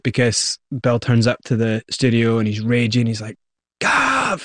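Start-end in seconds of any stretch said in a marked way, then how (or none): 3.8-4.4 retold yell of the name, pitched way up; mock scream. Raging Bill calling Gavin at the studio, mild mock yell. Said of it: "He's screaming".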